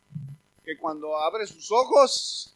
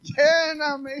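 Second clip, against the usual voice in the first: loud, high, desperate cry to God; a man shouting to God across the field, crying out loud; retold shout; 7 semitones higher, 14 dB louder, much slower than usual. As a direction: yell it out, pleading to be filled. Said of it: "se oía desde lejos que gritaba".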